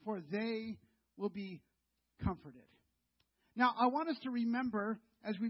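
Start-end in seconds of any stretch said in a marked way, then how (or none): 0.0-2.6 slow, reverent quotation of the verse; solemn scripture reading. Acted. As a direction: let the verse land slowly and gently. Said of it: "he said".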